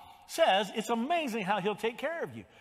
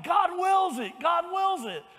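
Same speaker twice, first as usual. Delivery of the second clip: high, loud chant of God wills it; war cry shout; 9 semitones higher, 5 dB louder than usual. Retold or imitated. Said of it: "they just kept shouting".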